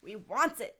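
lightly theatrical demand easing into doubt; mildly stagey creature backing down; Gollum, hesitating. Acted. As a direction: start insistent, then hesitate with long pauses. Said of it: "a theatrical voice".

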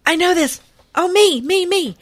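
high, eager "me, me, me". Real, not acted. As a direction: hand up, desperate to answer. Eager to answer quiz.

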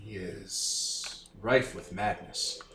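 low, very slow, solemn voice; slow grave voice. Acted. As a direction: pronounce doom slowly. Character speaks grave, slow.

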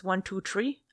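"three" said as "tree"; Irish-style count with a t in "three"; one, two, "tree", lifting at the end. Shown as a demonstration. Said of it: "Irish too".

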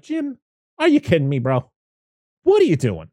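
high-pitched incredulous protest; mock exasperation. Viewer scolding Jim, exasperated. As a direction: challenge him in comic disbelief.

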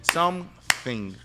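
"something" split slowly into SOME, THING; careful word practice. Shown as a demonstration. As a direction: sound out "something" syllable by syllable. Guest practises word after praise.

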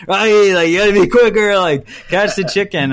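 hammed-up cranky coach barking orders; mad raspy trainer. Trainer Mickey scolding Rocky during chicken training, loud mock rasp. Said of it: "always so mad and raspy".

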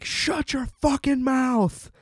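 lightly voiced cartoonish mean mother; mock nasty mom. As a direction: sneer it like a hammed-up awful mom. Mother silencing child.

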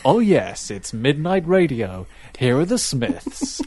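slow, smooth late-night DJ; host a late-night radio show. Retold or imitated. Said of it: "I went into full radio mode".

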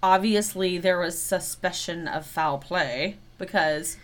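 slow, deliberate inspector delivery; detective voice. Acted. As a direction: lay out the case like an inspector. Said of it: "I like the way you said that, like an inspector".

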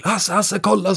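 put-on high, excited child calling Hasse. Boy in the bathroom calls Hasse to look, excited and high. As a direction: call out like an amazed little boy. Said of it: "sa han".

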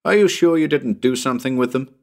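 a touch of calling to someone below. Acted. Narrator questions Tommy from the roof, mildly calling down. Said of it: "then called down to Tommy".

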